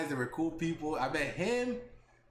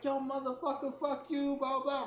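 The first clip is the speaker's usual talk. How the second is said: mock tough guy; 6 semitones higher than usual. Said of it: "I'm gonna act hard".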